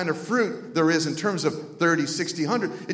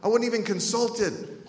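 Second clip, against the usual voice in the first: drawn-out, higher 'oh, that's not fair'; mock protest; 5 semitones higher, slower than usual. Young man protesting to God, in mock protest. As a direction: complain like a wronged kid. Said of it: "So then I thought".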